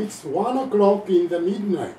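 put-on slow katakana-accented English; Japanese English. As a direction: spell it out as a Japanese speaker would. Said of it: "典型的なジャパニーズ・イングリッシュですよ". (ゆっくりした日本語英語の発音で)

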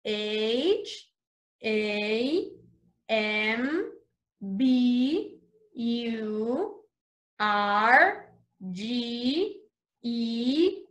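each letter on its own with pauses between. Shown as a demonstration. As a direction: spell it out slowly for the class. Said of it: "let's spell hamburger".

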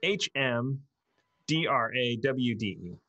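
slow letter-by-letter spelling. Real, not acted. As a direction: spell it slowly, one letter at a time. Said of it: "Uh, it's K R A H M".

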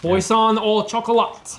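loud, sharp French label. Real, not acted. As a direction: call it out loudly. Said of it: "Stop yelling".

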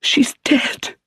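high, hushed whisper. A narrator's reading. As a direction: let the news fall in a whisper. Sophia breaks bad news.

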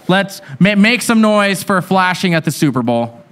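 rally the crowd to cheer; calling out to crowd. Real, not acted. Host shouting to the audience for flashing option.

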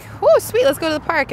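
high excited exclamation; mock excited. Mom imitating her excitement about warm weather. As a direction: act thrilled about the warm day. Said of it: "so I'm like".

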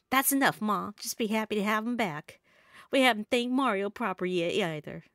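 calm Ma with a Southern twang; Southern accent. Acted. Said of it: "trying my best to talk in a southern accent".

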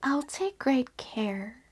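put-on little girl whispering a promise; whispered promise. Little Red Riding Hood promising her mother, whispered. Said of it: "said Little Red Riding Hood".

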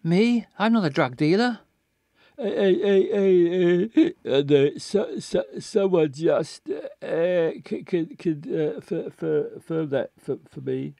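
put-on slurred, stammering drunk man; halting, tipsy detective. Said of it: "reading him like a drunk man".

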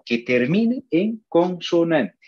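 slow, spelled-out teacher emphasis; emphatic clarity. Real, not acted. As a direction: lay it out clearly, word by word. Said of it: "Estoy diciendo bien claro".

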